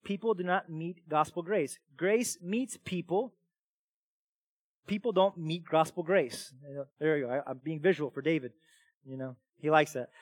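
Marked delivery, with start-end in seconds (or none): none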